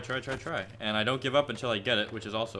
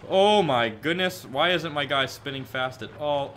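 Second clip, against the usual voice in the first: slow, drawn-out, louder and higher; tense excitement; 4 semitones higher, 7 dB louder, slower than usual. Real, not acted. Streamer watching his trick, drawn-out tense exclamation. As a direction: stretch it out as the trick nearly lands. Nearly landing the trick live.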